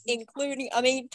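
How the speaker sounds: usual speaking voice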